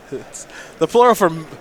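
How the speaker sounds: breaking up with laughter mid-sentence; can barely get words out for laughing; cracking up at a joke about meese. Real, not acted. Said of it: "I can't even talk".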